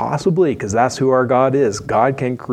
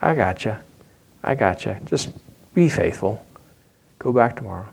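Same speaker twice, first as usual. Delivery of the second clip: reassuring God; 3 semitones lower, 4 dB quieter than usual. Retold or imitated. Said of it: "God's like".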